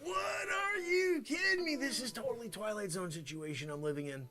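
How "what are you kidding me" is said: outraged disbelief. Acted.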